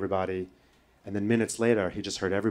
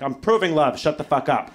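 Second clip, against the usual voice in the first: louder, higher retort; mock defiant snap; 5 semitones higher, 5 dB louder than usual. Caught by sister taking codeines, mock defiant snap. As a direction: snap back in mock outrage. Retold shouting back at sister.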